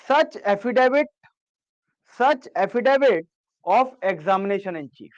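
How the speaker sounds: very slow, word by word; slow classroom dictation. Shown as a demonstration. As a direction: dictate slowly so students can write. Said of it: "दोबारा बोल रहा हूं".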